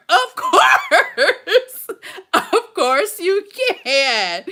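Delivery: high, bright laughing agreement; laughing yes. Real, not acted. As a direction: answer with a delighted laugh. Delighted reply, laughing.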